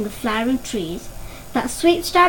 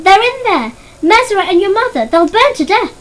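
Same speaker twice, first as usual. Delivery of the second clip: loud, higher, urgent shouting; frantic shout; 8 semitones higher, 7 dB louder than usual. A narrator's reading. Father shouts that family is trapped in the fire, frantic. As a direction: yell the alarm over the fire. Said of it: "His father was calling out".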